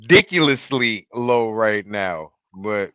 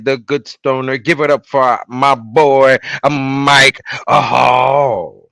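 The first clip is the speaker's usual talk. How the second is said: show announcer. Acted. Host bringing on his boy from Cincinnati, announcer style. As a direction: build up to the name, then stretch it.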